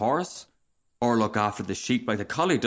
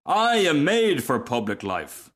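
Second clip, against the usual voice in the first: slow, higher, grand declaration; lightly voiced pompous Rocket; 4 semitones higher, 3 dB louder, slower than usual. Rocket boasting of public life, a touch pompous. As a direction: lightly puff up with self-importance. Reader plays the conceited Rocket.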